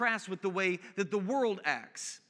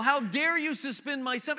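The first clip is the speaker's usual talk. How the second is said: higher-pitched mock indignation; mildly hammed-up angry protest; retold angry dad; 5 semitones higher than usual. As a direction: imitate an outraged parent, pitch raised. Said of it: "he was angry with the principal".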